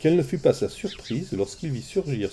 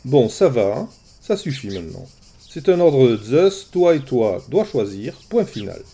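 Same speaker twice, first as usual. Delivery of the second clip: firm, louder order; stern, no more joking; 2 semitones higher, 5 dB louder than usual. Acted. Hermès, annoyed, orders the shepherd firmly. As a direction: cut him off sternly. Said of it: "cessa de prendre un ton rieur".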